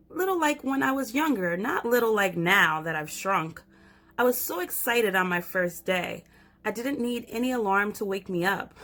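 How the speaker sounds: put-on lively little girl telling her story; light child narrator, chatty and eager. Reads child narrator Stella.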